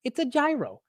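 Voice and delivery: normal talking voice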